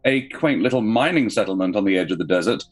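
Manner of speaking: dramatic scene-setting narration; story narration. Acted. GM reads opening scene.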